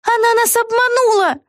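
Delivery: put-on high girl's voice announcing a betrayal; indignant young witch, voiced high; high, indignant announcement; Vega declaring. A narrator's reading. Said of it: "объявила Вега".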